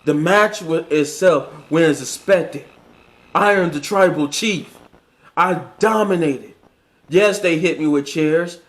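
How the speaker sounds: lightly voiced boastful champion; a hint of the arrogant tribal chief. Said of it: "in my tribal chief voice".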